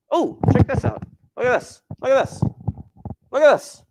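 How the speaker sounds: very high, bright look at this; excited squeal. Real, not acted. Teacher squeals at the class to look at this.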